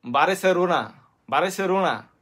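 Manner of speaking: mock village Bengali accent on বারেসেলোনা; village uncle's mispronunciation. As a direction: mimic a rural Bengali uncle saying বারেসেলোনা. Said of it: "অশিক্ষিত চাচাই কইব কি".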